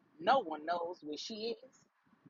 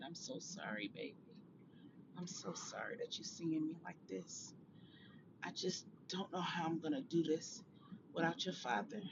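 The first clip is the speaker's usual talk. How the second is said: tearful; 10 dB quieter than usual. A narrator's reading. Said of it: "Angela cried and said".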